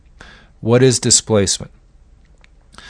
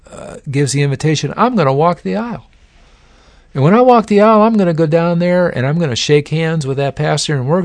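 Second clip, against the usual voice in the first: mock pious convert; 4 semitones higher than usual. The speaker mocking his own church plan, hammed-up zeal. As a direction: sell the big promise like a zealous convert. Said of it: "it goes something like this".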